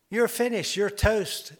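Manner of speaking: put-on the devil gloats over a tired old man; taunting. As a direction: gloat over the beaten victim. Preacher voicing devil's taunt.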